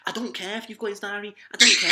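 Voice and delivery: high, then loud irritated teacher; exasperated teacher yelling; mock angry teacher. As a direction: snap at the kid like a fed-up teacher. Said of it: "He's like".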